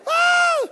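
high, loud panicked shriek; imitated scream. Couple in the car about to be hit, screaming. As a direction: scream as if the crash is coming. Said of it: "She screamed".

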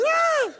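high, loud shriek; imitated scream. Wife in the car before a crash, screaming. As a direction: shriek in mock terror. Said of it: "She screamed".

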